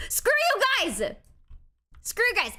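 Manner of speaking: teasing shouted retort; mock angry shout. Real, not acted. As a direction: yell at the chat in fake anger. Yelling at teasing chat.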